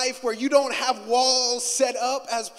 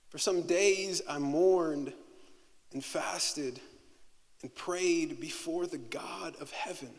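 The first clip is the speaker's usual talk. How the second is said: scripture reading. Acted. Reads scripture aloud.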